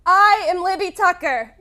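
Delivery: loud cocky echo of the coach; brash bravado. Shown as a demonstration. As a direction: say it like you own it. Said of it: "I'm gonna walk you right through this".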